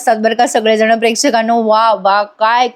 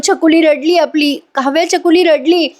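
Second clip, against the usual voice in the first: high-pitched happy announcement; retold joyful relief; 5 semitones higher than usual. Father tells mother their baby cried, overjoyed.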